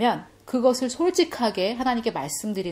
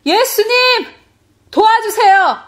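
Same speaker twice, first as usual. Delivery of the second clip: high, loud shouted plea; sustained high prayer cry; 13 semitones higher, 11 dB louder, slower than usual. Retold or imitated. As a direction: shout to Jesus for help at full voice. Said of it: "이렇게 부르짖었어요".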